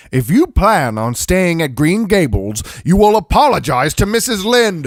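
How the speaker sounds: a firm, rising command, the last line pushed high. Acted. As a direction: lay down the law to the girl. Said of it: "Marilla commanded".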